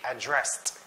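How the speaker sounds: "addressed" with stress on DRESSED; verb stress. Shown as a demonstration. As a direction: put the weight late, on DRESSED in "addressed". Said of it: "addressing to someone, it should be".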